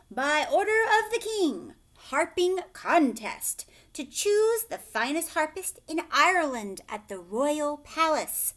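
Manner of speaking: loud, high herald's announcement; royal proclamation. A narrator's reading. A herald announces the king's harping contest, loud and high. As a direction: cry it out like a town crier.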